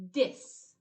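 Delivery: prefix dis said clearly; pronounced prefix. Shown as a demonstration. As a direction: dis said as a clean separate prefix. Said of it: "a new one called".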